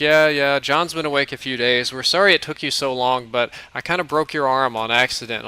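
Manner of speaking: put-on bubbly young vampire girl chattering; girl's voice. Brunette vampire girl voiced in story.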